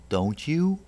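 "don't you?" tossed up high as a light check-in; a rising, encouraging "don't you?" to prompt the witness; "don't you?" lifted at the end to nudge agreement; tag question. Shown as a demonstration. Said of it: "You can encourage them with an occasional".

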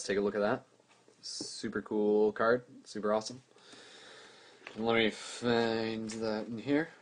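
tired, fading voice; losing your voice, push through it; voice giving out. Real, not acted. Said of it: "I'm losing my voice".

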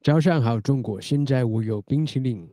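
stiff foreigner Mandarin; broken Mandarin from a foreigner; foreigner speaking Mandarin. Pretend.

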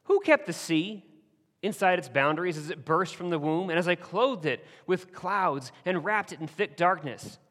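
God speaking. Acted. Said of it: "God is talking to Job and says this".

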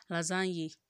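lasagne said la-ZAN-yeh; pronunciation of lasagne. Shown as a demonstration. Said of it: "Abi, is it lasagne?".

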